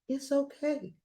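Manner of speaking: soothing hushed it's okay; soft hush. Acted. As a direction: hush the crying baby gently. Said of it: "I whispered".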